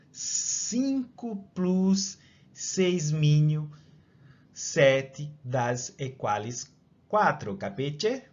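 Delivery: slow, hammed-up Italian accent. Shown as a demonstration. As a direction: drag it out like an Italian. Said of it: "deixa eu tentar dar o sotaque italiano".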